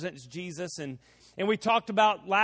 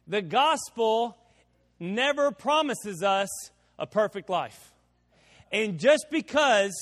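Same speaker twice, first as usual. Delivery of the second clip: slow emphatic preaching; slower than usual. Real, not acted. Preacher drives the moral home.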